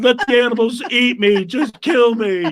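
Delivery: put-on crying. Retelling a night stuck in the snow: imitating someone crying. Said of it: "she's crying all the way up".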